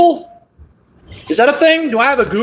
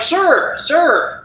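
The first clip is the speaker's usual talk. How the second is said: raised, higher voice calling across to a stranger; 4 semitones higher, slower than usual. Retold or imitated. Narrator calling to the old man in his driveway, raised and high. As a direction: call out to get the man's attention.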